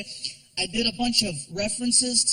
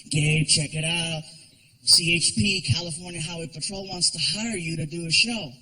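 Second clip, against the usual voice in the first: agent voice; 6 semitones lower than usual. Retold or imitated. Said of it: "he's like".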